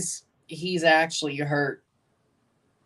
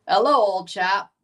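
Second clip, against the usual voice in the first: attempted British accent; 3 semitones higher, 4 dB louder than usual. Shown as a demonstration. Streamer retrying for chat, attempted British accent. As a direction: try a British hello for show. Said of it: "that didn't really work".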